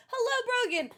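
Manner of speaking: falling high hello; lilting hello with a drop; high singsong greeting. Real, not acted.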